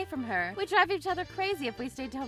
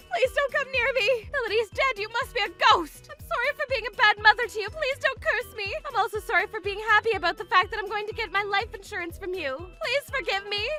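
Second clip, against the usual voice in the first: frightened pleading; 3 semitones higher than usual. Acted. Mother begging the ghost.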